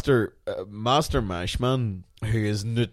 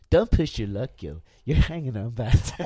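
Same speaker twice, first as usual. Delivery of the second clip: Lionel Hutz. Pretend. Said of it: "another Lionel Hutz scene".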